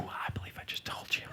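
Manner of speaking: low raspy whispered Batman growl. Pretend. Alone at the mirror, answering as Batman in a growl. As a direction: growl it, clipped and patient as the Dark Knight.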